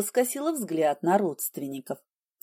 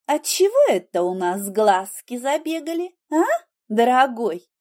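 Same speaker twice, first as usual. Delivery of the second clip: teasing suspicion; 3 semitones higher than usual. Acted. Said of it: "прищурилась я".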